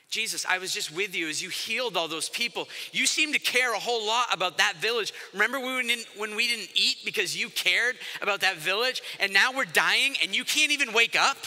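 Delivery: accusing. Acted. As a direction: pile up the reproach, ending in exasperation. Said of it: "We have lots of accusations against him".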